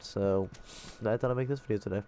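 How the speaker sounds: blocked nose, mouth breathing; stuffy nose. Real, not acted. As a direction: talk through a head cold. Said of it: "I'm still stuffed".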